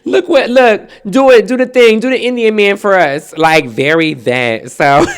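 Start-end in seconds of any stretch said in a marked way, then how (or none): 0.0-3.3 high, pleading family voice; pitched-up mimicry of eager relatives; imitated delighted relatives. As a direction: beg excitedly for the party trick. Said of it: "they used to live for it".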